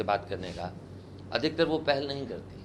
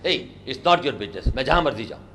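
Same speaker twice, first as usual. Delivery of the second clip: mild mock anger, a bit louder; angry; 4 dB louder, slower than usual. Shown as a demonstration. Teacher acts a girl fed up with the boy's questions. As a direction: snap back at him in a half-acted temper. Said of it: "आप उसे गुस्से से बोलते हैं".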